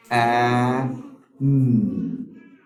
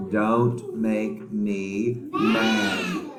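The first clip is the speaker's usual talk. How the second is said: mock mad; much slower than usual. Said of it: "example sentence for word".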